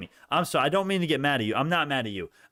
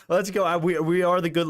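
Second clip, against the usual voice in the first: cheering; 4 semitones higher, 3 dB louder than usual. Real, not acted. Breakout cheering.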